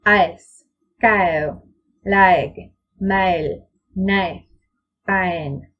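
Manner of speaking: each word with an a-to-e glide, "fine" close to fa-en; ae diphthong demo. Shown as a demonstration. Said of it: "It sounds like this".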